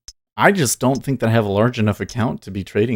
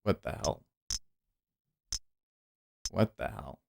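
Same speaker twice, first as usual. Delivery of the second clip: stunned murmur; 3 semitones lower, 15 dB quieter than usual. Real, not acted. Stunned by a market move.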